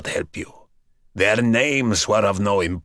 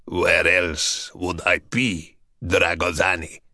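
mocking; 6 semitones lower, 4 dB quieter than usual. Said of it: "The voice seemed to mock".

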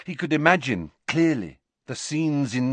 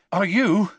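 higher, louder anxious question; worried Hagrid; 10 semitones higher, 5 dB louder than usual. A narrator's reading. Hagrid asking fallen Harry if he's hurt, worried. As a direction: check he's really fine.

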